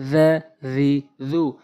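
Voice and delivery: "জা জি জু" slowly, each with a voiced th; slow tongue-tip dh. Shown as a demonstration. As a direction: draw out "জা জি জু", tongue tip at the teeth. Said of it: "জাল জিব্বার আগা".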